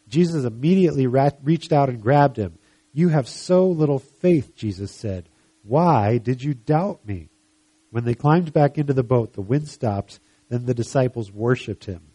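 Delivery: emphatic Bible story narration; scripture reading. Acted. Preacher telling of Peter walking on water, emphatic reading. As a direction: read the passage out to a congregation.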